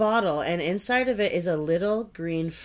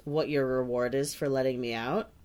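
lower, softer menacing giant; a read giant's threat, pitched lower and softer; terrifying giant voice; 6 semitones lower, 5 dB quieter than usual. A narrator's reading. Giant threatens the student who freed him, low menacing voice. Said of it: "he cried in a terrifying voice".

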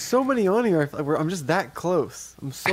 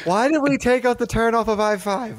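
nagging mom voice; 5 semitones higher than usual. Retold or imitated. Mocking the nagging voice.

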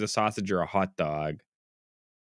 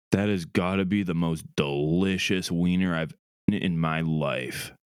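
low, slowing dramatic reading; wild overacting; 4 semitones lower than usual. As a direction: ham it up like a grand stage actor. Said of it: "I need you to dramatic reading that sentence".

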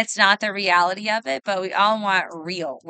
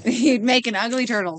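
laughing; 3 semitones higher than usual. Real, not acted. Repeats friend's joke laughing.

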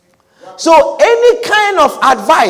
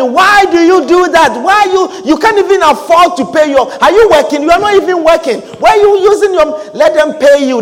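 higher-pitched, badgering imitated adviser; mock indignant questioning; 4 semitones higher than usual. Adviser challenging someone paying for church things, mock exasperated. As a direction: pile up questions in acted exasperation.

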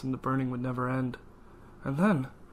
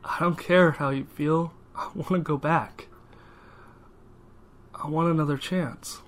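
defiant demand; 3 semitones higher than usual. Acted. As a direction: demand it, refuse to back down.

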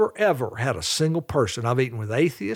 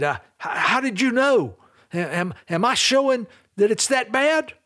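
acting startled; 8 semitones higher than usual. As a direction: voice a taken-aback server, stumbling into the question. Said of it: "a startled look on her face".

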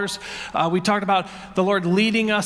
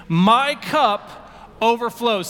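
slow, even unison recitation; slow call-and-response reading; said with the congregation; much slower than usual. Shown as a demonstration. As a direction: lead the room through it slowly. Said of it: "Say it with me".

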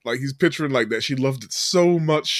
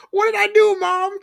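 put-on high wail of a kid being punished; whiny kid. Retelling Schwartz crying out over the phone, high wail. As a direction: wail it like a blameless boy. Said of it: "you hear Schwartz go".

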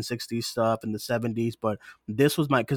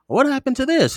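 higher and louder, a sharp questioning voice; a higher, louder take on Wanda's question; imitating Wanda; 13 semitones higher, 6 dB louder than usual. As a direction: mimic her demanding to know. Quoting Wanda asking Pietro.

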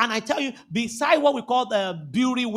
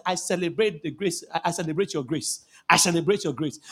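friendly greeting; 6 semitones lower than usual. Retold or imitated. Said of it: "you just tell them".

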